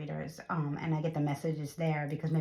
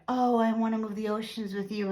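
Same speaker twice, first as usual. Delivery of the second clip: gushing romantic; 4 semitones higher than usual. Retold or imitated. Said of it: "it's not, like, very".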